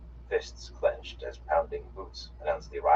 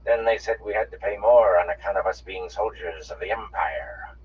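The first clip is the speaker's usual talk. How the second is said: put-on twangy accent; 4 semitones higher, 8 dB louder than usual. A narrator's reading. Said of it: "in the same twangy accents".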